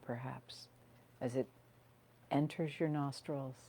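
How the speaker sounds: calm grounding guide with long pauses; unhurried phrases, leaving room to breathe; guided meditation. Real, not acted.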